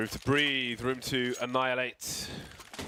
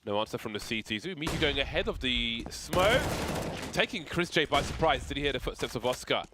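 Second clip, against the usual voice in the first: brisk live play-by-play call; esports caster; 3 semitones higher than usual. Acted. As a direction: narrate each kill as it happens. Casting live match play-by-play.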